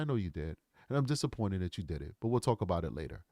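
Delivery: low, soft and restrained; calm disappointed dad. Retold or imitated. Father to son about the broken tablet, quietly disappointed. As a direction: quietly let him know you're let down, keeping it low.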